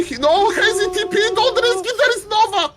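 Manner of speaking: high, loud frantic warning; panicked shout. Real, not acted. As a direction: yell the warning in real panic. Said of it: "I was panicking".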